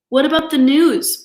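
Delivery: high, loud indignant protest; protesting Papa. Acted. Papa protests to Mama over losing the news, loud and high. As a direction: object hard, like your rights are taken. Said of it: "protested Papa".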